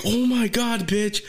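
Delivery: high-pitched rant breaking into laughter; exasperated mock scolding, half laughing; mock exasperation. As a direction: imitate a bouncer at the end of his rope. Acting out exasperated bouncer answering her.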